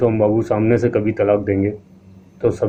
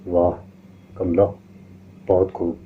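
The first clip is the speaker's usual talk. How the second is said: chuckling; 3 semitones lower than usual. A narrator's reading. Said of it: "सोम बाबू हंसे".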